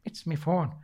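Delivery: put-on softly tried-out Irish accent; understated go at an Irish accent; quiet mock Irish. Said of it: "I can do a good Irish accent".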